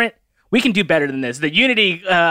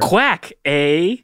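Canadian duck. Pretend. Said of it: "Canadian duck sounds".

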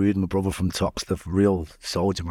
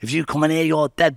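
higher, louder chanted threat; shouted threat; 8 semitones higher, 5 dB louder than usual. Retold or imitated. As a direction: yell it from behind the bars. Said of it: "everyone shouts".

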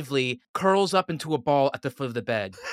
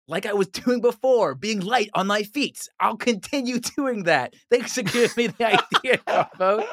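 laughing; 7 semitones higher, 4 dB louder than usual. Acted. Player gleeful in character.

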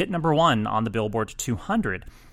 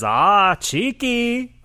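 much higher British voice; imitating a famous singer; 10 semitones higher, 7 dB louder, much slower than usual. Host voicing the singer teasing him on the phone, British accent. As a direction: tease it like the singer. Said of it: "he says".

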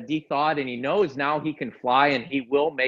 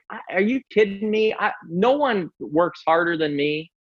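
higher-pitched retold outburst, not shouted; mock indignant tirade; 5 semitones higher than usual. Retelling screaming at the coach in the parking lot, mild mock tirade. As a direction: lay into them in a mild mock rant. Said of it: "I'm just laying into him".

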